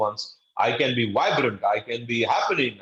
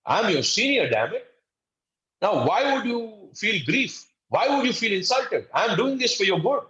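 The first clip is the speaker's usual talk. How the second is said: irritated senior; 5 semitones higher than usual. Retold or imitated. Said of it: "be not emotionally intelligent, you would say".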